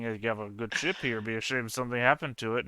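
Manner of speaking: fast, sweet mob-style menace; smiling threat. Acted. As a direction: threaten nicely, like a gangster. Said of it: "I'm doing the mob thing".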